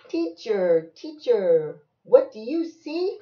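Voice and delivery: loud singsong call, rising question; storybook refrain; reading to a child. Acted. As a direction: stretch the name, swing the question up. Reading picture book aloud to child.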